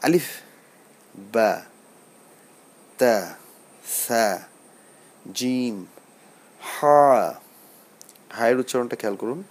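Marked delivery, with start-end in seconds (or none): 0.0-7.3 spaced-out "বা, তা, সা" for repeating; Arabic letter pronunciation. Shown as a demonstration. Teacher asking learners to read along, deliberate recitation of "আলিফ, বা, তা". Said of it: "আপনারা আমার সাথে পড়ুন".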